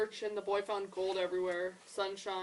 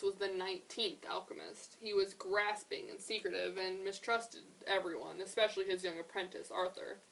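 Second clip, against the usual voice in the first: story narration. A narrator's reading. Teacher reads a picture book to the class, measured. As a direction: tell it like a fairy tale.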